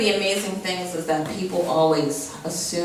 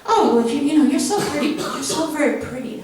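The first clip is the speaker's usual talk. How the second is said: mock flirty guy; 7 semitones higher than usual. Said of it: "And he's like".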